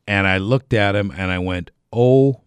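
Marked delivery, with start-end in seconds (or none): 1.9-2.4 a sudden, loud, high "Oh"; shocked gasp. Retold or imitated. Telling how he found his friend drinking the old beer, shocked. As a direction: blurt out "Oh" in disbelief.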